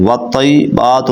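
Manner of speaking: hurried, slurred-together والطیبات; mispronounced recitation. Shown as a demonstration. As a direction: say والطیبات quickly as "wattaibatu", losing the "yi" syllable. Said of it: "تو ایسے غلط ہو جائے گا".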